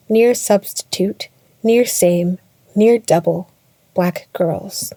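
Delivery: loud, declamatory spoken-word intro; title announcement. Acted. Poet announces the piece and its performers, declaimed loudly.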